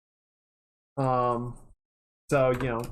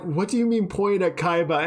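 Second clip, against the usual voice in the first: laughing disbelief; 4 semitones higher than usual. Retold or imitated. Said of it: "I was like".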